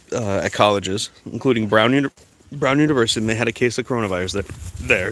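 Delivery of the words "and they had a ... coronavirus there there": talking through hiccups; hiccuping. Real, not acted. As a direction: hiccups catching the words. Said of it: "I'm hiccuping".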